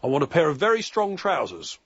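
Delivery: mock upper-class shop request. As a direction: put on a mild upper-class accent. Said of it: "in his best upper-class voice".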